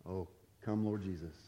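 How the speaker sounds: offhand, half-joking sigh to the Lord. Shown as a demonstration. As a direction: toss it off lightly as a joke. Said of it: "maybe joke about that".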